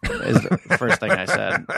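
ordinary talk, nothing marked

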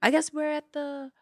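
loud put-on Cockney; Cockney accent. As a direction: call it out in amateur Cockney. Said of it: "the accent is Cockney".

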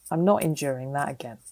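quiet whispered resolve; whispered vow. Retold or imitated. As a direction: whisper it like a private oath. Vow after bad tea ordeal.

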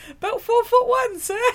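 high, earnest little reply; short thief. Retold or imitated. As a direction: answer like a tiny bandit. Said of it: "the joke".

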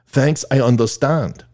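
slow, rough mock French accent. Exchange student thanking the math teacher, rough French accent. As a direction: put on a clumsy French student voice. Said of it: "Sorry about the French accent there".

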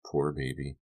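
soft voice drifting from far away; faint, distant cooing. A narrator's reading. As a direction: murmur it softly, as if from miles off. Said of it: "she was miles and miles away".

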